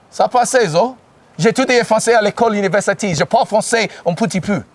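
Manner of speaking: speaking French in a practised French accent; quick schoolroom French with a French accent. Shown as a demonstration. Speaker showing the crowd his French, French accent. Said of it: "that was a good accent".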